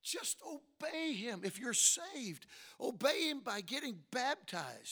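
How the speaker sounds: emphatic exhortation with stretched key words; forceful preaching. Real, not acted. Preacher urging the saved to get baptized, emphatic preaching. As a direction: press each step home like a preacher.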